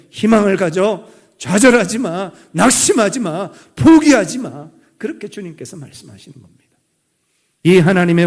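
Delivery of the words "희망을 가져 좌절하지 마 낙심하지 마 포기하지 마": loud rallying call, building to the last command; urgent exhortation. Acted. God urging the people on.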